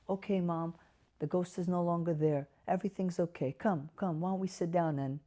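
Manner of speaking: quiet, calming mom after the ghost is gone; tender caregiver reassurance; soft reassuring. Shown as a demonstration. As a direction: gently settle her down. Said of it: "validation therapy".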